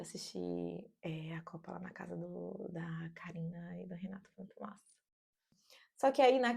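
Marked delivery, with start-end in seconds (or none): 0.0-5.0 soft unvoiced whisper; hushed closing whisper. Real, not acted. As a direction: breathe the words out in a whisper. Trailing whispered remark.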